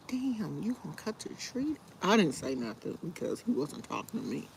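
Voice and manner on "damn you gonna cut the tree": retold under-breath whisper, higher; whispered quote. Reacting to neighbor cutting the tree, a whispered aside. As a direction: mutter it to yourself in a hush. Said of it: "I'm like".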